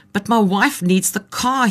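a hint of German tourist protesting, drawn out. A narrator's reading. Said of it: "he protested".

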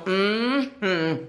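sarcastic hum-sighs; dismissive sighs. Shown as a demonstration. Speaker demonstrating dismissive sighs, sarcastic. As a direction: sigh with disdain. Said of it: "suspiros como".

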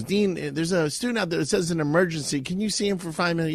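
a hint of a polite secretary asking the dean. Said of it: "she goes".

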